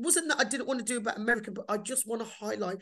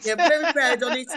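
broad Black Country accent, louder; 4 semitones higher, 10 dB louder than usual. Shown as a demonstration. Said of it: "I'm proud of my Black country accent".

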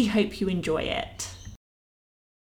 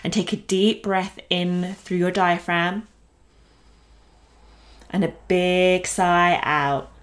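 guided meditation; 2 semitones lower than usual. Acted. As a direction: lead the breath gently, unhurried. Guides breathing exercise.

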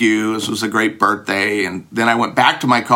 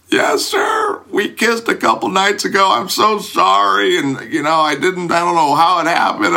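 higher, hurried apologetic babble; nervous babbling; 7 semitones higher than usual. Retold or imitated. Student babbling apologies to the girl's father, high and anxious. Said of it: "like, babbling".

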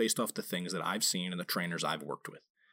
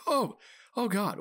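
slow, much higher mock disgust; disgusted groan; 11 semitones higher, 3 dB louder, slower than usual. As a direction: drag out a grossed-out groan. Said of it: "I'm like".

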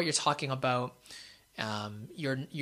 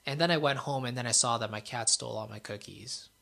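sadder delivery. Shown as a demonstration. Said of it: "a little sadder delivery there".

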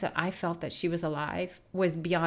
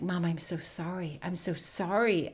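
retold apology; 4 dB quieter than usual. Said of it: "I'm like".

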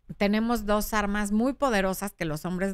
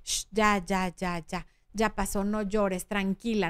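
soothing someone crying; 3 semitones lower than usual. Retold or imitated. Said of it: "pat en la espalda como de".

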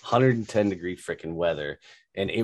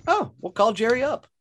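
higher, light mock of an eager Texas lady; lady's delighted voice; 13 semitones higher, 3 dB louder than usual. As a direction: play the eager homeowner, up high. Retelling the homeowner lady.

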